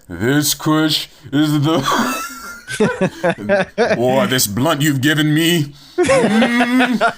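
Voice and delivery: slow, preacher-like awed voice with a laugh; hammed-up reverent preacher; booming slow sermon voice, cracking up; imitating Martin Luther King. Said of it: "He'd be like".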